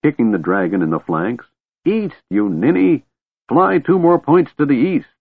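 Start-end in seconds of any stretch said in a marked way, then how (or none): 1.8-5.1 put-on high-pitched, scolding old man; exasperated yell. A narrator's reading. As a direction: shout directions at a fool. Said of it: "yelled the old man".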